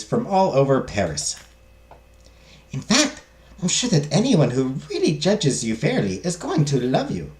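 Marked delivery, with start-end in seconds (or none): 2.7-7.3 put-on lightly accented servant voice, lilting up and down; a hint of the accented maid, encouraging; reassuring maid, accented. Maid assures madame she will be loved, reassuring.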